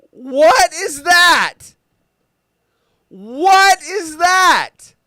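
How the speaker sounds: high, slow, loud shocked cry; high drawn-out what is that, appalled; stunned disbelief. Real, not acted. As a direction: gawk at the ugly shoes in disbelief. Shocked at pig hoof shoes.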